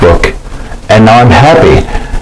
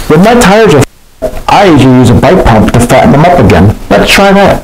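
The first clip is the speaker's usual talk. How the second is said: put-on high, eager kid-plane voice; bright and keen, pitched up high; 4 semitones higher than usual. J J's line in the story.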